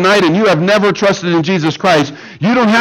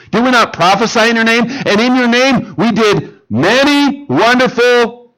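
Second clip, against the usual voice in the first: higher, faster protest, then slowing on the boast; pleading religious teacher; 4 semitones higher than usual. Acted. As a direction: plead your record before the judge. Religious teachers pleading before God.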